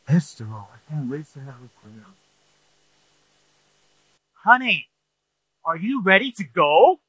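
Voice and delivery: high, sugary honey voice; sweet-talking spouse. Acted. Spouse acting sweet before church, high sugary voice.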